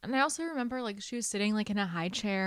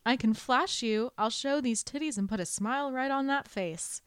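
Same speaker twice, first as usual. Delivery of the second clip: flirty quote; 5 semitones higher, 4 dB louder than usual. Retold or imitated. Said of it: "she just responds".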